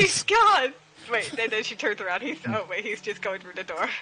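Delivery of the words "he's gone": surprised. Acted. Player reacts to NPC vanishing.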